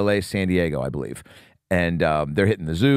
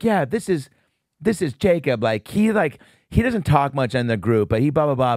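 higher-pitched imitation of a kid; teen girl; 5 semitones higher than usual. Teens gossip to the cop about a boy in the group, imitated teen chatter. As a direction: lightly voice a chattering teenager.

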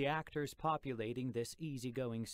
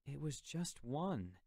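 pleading; 3 semitones higher than usual. Acted. Jim begging his uncle to see reason, pleading. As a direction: plead for understanding. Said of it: "I pleaded".

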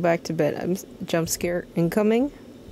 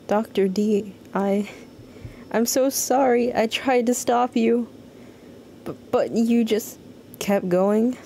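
voicing game character; 4 semitones higher, slower than usual. Voices distressed character reading dialogue.

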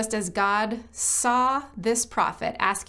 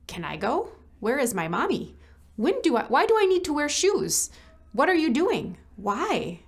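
a hint of a small child firing questions, lifting at the ends; lightly voiced toddler; 3 semitones higher than usual. Toddler peppering a parent with question after question, lightly childlike. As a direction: lightly play an inquisitive preschooler. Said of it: "from your three-year-old, your four-year-old".

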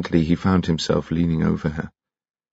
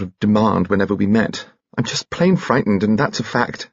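higher, a touch of shakiness; shakily; 4 semitones higher than usual. Acted. Troy asking Alain to let her go, shaky. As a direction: speak a little high and unsteady, unsettled. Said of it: "Troy said shakily".

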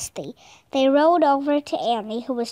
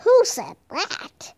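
startled; 5 semitones higher, slower than usual. A narrator's reading. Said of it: "Annie gasped".

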